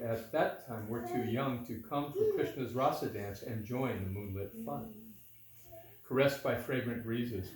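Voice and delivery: measured storytelling in metre; verse narration. A narrator's reading. Reading Balaram's visit to listeners, measured verse narration. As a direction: read it as rhymed verse, phrase by phrase.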